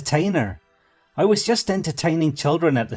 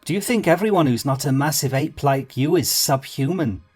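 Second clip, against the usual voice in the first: high, loud offended rant; offended little man; 4 semitones higher, 3 dB louder than usual. A narrator's reading. Insulted small man scolding Brendan, high loud offended rant. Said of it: "The man jumped angrily to his feet".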